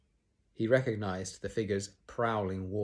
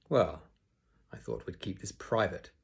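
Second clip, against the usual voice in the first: icy. Acted. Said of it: "his voice icy".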